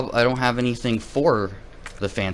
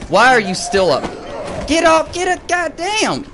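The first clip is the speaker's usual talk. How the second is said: high, loud frantic shouting; screaming at the zombie to stay down; frantic yell; 4 dB louder than usual. Real, not acted. Gamer yells in panic as the zombie gets back up.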